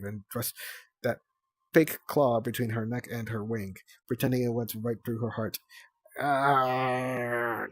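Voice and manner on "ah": howl. Acted. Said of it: "Sunny howled".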